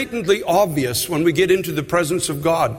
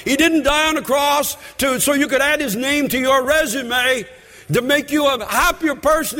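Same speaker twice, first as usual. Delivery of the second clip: preaching at full force; 6 semitones higher than usual. Acted. Preacher exhorting the congregation to repent, full force. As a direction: drive it home from the pulpit.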